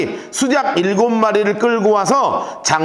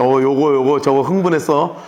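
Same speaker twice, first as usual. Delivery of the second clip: a hint of a calm, lower commander; cool strategist; 4 semitones lower than usual. Jeroboam calmly directing his troops, lightly voiced cool commander. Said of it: "가만히 지금 바라보는 거예요".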